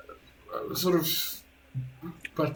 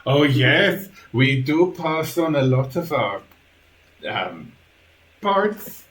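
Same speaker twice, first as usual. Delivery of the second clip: lightly voiced creature butler; a hint of an eager stitched servant; Igor, obliging creepy servant; 5 semitones higher, 6 dB louder, slower than usual. Igor explains body parts to a guest, lightly creepy.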